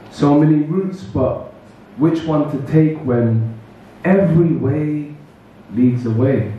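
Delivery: rhythmic spoken word, phrases set apart by pauses; poetry recital. Acted. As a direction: lean on the rhymes, phrase by phrase. Recites own poem to audience.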